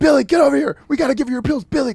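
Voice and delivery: mock, very high, loud teacher-style holler. Retelling how teachers called a student to take pills: imitating teachers yelling. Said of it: "they'd yell".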